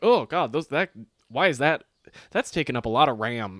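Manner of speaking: hammed-up inner complaint; mock exasperation. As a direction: groan at the unwanted thought. Acting out reaction to unwanted mental images.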